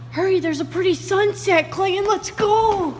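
high-pitched hurrying call. Real, not acted. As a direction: call him along eagerly. Calling Clayton to hurry.

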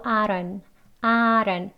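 "I don't" reduced to "ai-ron"; "don't" softened to "ron"; flapped, dropped t. Shown as a demonstration. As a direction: tap the d of DON'T like ㄹ and drop its t. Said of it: "리을 소리로 읽습니다".

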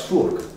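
fourque with a hard k at the end; patois pronunciation. Shown as a demonstration. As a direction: say fourque as FOORK, patois style. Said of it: "In patois".

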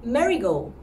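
Marigold said as the flower name; wrong take, Marigold. Shown as a demonstration. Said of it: "sounding almost like the flower".

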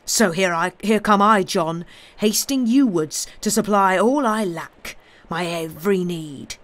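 menacing. Acted. Avenger states his demands.

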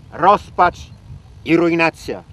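theatrical despair; despairing outcry. Acted. Laments the ruined ponds.

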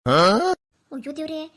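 loud, slow, stretched wail to God; wailing lament. Acted. Old woman realising it's the ghosts' new-moon night, a loud, slow wail. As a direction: wail it out in dismay.

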